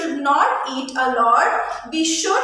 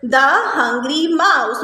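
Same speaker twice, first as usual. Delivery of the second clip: slow dictation; slower than usual. Shown as a demonstration. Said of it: "You will write like this".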